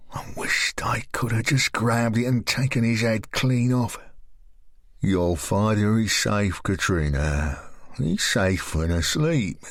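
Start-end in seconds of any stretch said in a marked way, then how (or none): 5.0-9.6 lower, slow menacing man; lower, slow sinister man; Graham's voice. Acted.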